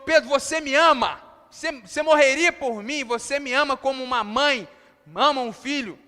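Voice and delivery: forte, cobrando uma confissão de amor; pergunta insistente de Jesus. Acted. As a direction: insista na pergunta com intensidade. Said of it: "Jesus pergunta de novo". (pergunta enfática e insistente)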